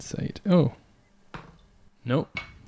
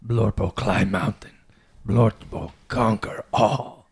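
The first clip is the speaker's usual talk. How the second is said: caveman barbarian; slower than usual. Acted. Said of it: "I say".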